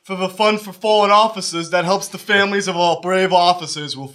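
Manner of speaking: lightly put-on cop solicitor patter; police voice. Shown as a demonstration. Solicitor asks old lady for police fund donations, police voice. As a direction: reassure her with a hint of official fundraising voice. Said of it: "Say it in your police voice".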